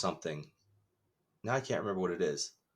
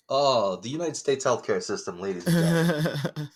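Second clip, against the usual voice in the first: mock announcer; 3 semitones higher, 4 dB louder than usual.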